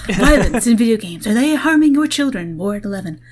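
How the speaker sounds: mock TV news teaser, pitch lifting on the question; news broadcast. Podcaster spoofs an MSNBC broadcast, mock news anchor. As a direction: parody a cable news anchor's alarmist headline. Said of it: "like, an M S N B C broadcast".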